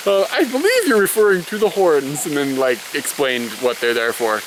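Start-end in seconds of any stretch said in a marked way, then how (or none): 0.1-2.3 imitating a zoo director, higher and sing-song, as if to a small child; mock patient grown-up explaining to a kid; talking down to a child. Zoo director answering a giraffe question, mock talking to a child. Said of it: "talking like she was speaking back to a child".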